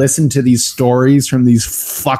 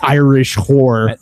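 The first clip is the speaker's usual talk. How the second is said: slow accusation; slower than usual. Retold or imitated. Detective accuses innkeeper's daughter.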